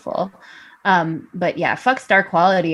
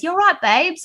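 higher-pitched imitation of RuPaul in a British drag style; RuPaul impression; 10 semitones higher than usual. Guest imitates RuPaul in the workroom, higher and sing-song. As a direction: chirp it like RuPaul greeting the queens. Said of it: "RuPaul comes into the workroom... she goes".

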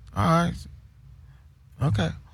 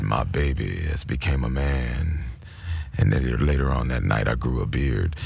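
very low, slow, rumbling impression of a deep-voiced singer; 12 semitones lower, 4 dB quieter than usual. Retelling the singer's interview in his deep slow voice. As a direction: sink into a deep crooner rumble. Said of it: "the singer said".

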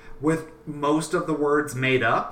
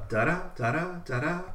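da-da with the second da stressed, lilting; iambic beats; 3 semitones higher, 5 dB quieter than usual. Shown as a demonstration. Poet demonstrates the lilting iamb to her friend, chanting. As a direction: hum the iamb, soft then strong. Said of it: "as opposed to iambs".

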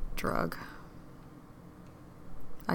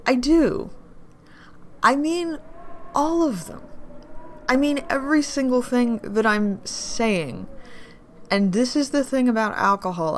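raised emotional outburst; 5 semitones higher, 4 dB louder than usual. Acted.

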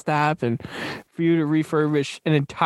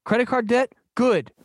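a hint of a pitchman, higher at first; mimicked sales pitch; 4 semitones higher than usual. Host quoting the movie speech to co-host, lightly mimicked pitch. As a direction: lightly imitate a motivational pitch, punching "Good". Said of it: "It's just like".

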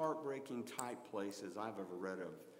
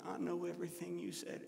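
little whine; 4 semitones higher, 5 dB quieter than usual. Retold or imitated. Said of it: "Always had a little whine to her".

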